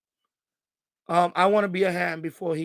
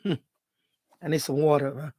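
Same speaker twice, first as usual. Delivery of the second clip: teary laugh; 4 semitones lower, much slower than usual. Real, not acted. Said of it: "Yeah, I'm a little".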